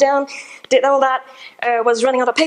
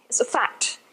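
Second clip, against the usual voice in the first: dull, murmured and much softer; flat, boring delivery; 2 semitones higher, 9 dB quieter, slower than usual. Shown as a demonstration. Demonstrating the boring fact version, softly and flatly. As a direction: drop the voice to a bored murmur. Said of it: "This is rather boring".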